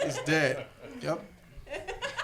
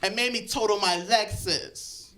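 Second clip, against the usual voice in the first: higher-pitched indignant rant, no real shouting; put-on girl's tirade, pitched up; mock yelling; 3 semitones higher than usual. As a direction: imitate an aggrieved girl telling off her friend. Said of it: "yelling at the girl".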